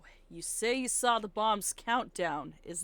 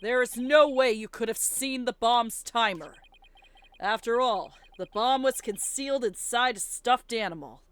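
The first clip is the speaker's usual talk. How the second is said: confident defense lawyer; 3 semitones higher, 9 dB louder than usual. Acted. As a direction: call the witness a liar with courtroom swagger. Plays Phoenix pressing witness.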